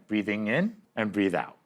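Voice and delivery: slow, calm breaths in and out; slow deep breathing. Shown as a demonstration. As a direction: breathe it out slowly. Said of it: "I'll try again".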